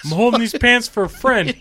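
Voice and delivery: put-on loud, high drunk hick voice. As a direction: slur an excuse like a hick. Drunk suspect bit.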